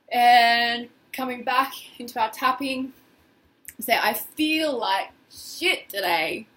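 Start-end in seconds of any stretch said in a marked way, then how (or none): 4.0-6.5 slow, felt delivery; feeling it. Shown as a demonstration. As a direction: drag the words out like you mean them. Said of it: "really get in there with the words".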